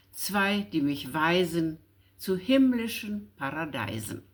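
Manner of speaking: steady, rhythmic listing of the angels; poem recitation. Acted. The old evening prayer recited before sleep, measured. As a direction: lean on each zwei in the prayer rhyme.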